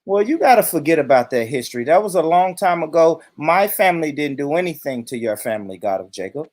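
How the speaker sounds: a hint of dismissive rich white man. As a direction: brush off the accusation in a lightly put-on white-guy voice. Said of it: "transform myself into a rich white man".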